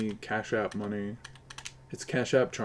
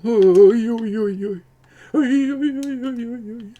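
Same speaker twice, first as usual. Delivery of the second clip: mock Polish accent; 11 semitones higher, 9 dB louder, slower than usual. Mock Polish voice after request.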